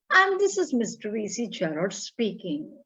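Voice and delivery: lightly put-on posh gentleman on the phone; a hint of an upper-class caller; imitation cultured voice. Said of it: "in imitation cultured voice".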